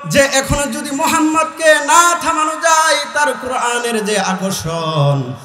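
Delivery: normal talking voice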